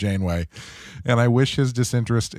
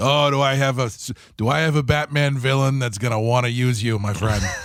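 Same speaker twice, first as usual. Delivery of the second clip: put-on Chicago gangster voice. Doing a bit, in what another speaker calls a Chicago gangster voice. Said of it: "Chicago-y gangster voice".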